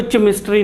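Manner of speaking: केमिस्ट्री opening on CH as in chair; chemistry misread with a CH start; mispronounced chemistry. Shown as a demonstration. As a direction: say केमिस्ट्री with CH replacing the K. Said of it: "यहाँ पे सीएच को तुम के से".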